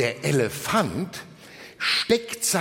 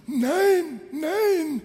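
strained, much higher wolf voice with a frog in the throat; grumbling wolf; 11 semitones higher than usual. A narrator's reading. Wolf denies having a frog in his throat, grumbling. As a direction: grumble it out, each word drawn and pitched up. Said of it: "brummt der Wolf".

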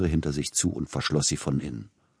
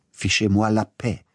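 higher, louder French outburst; shouting in French; 5 semitones higher, 3 dB louder than usual. Acted. Tchaikovsky yelling at the agent Neugebauer in French, angry shout. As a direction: fling the French words at him. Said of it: "schrie Peter Iljitsch ihn an".

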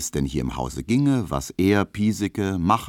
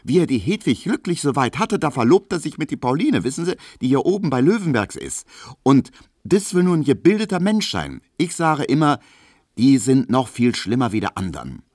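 lightly voiced indignant young Berlin woman, higher; mock outrage at a fickle man, pitched up; young servant girl gossiping, indignant and higher; Emma; 9 semitones higher, 5 dB louder than usual.

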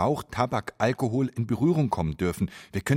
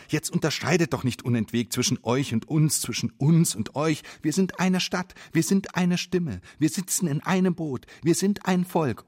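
mock loud call; 6 semitones higher than usual. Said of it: "schreit einer ganz laut".

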